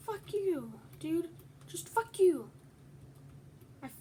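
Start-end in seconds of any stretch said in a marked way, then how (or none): 0.1-2.5 angry yell. Real, not acted. Still raging at player.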